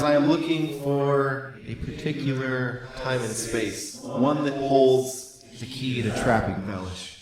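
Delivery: slow, solemn sorceress; slow grave sorceress line. Acted. GM voices Helena.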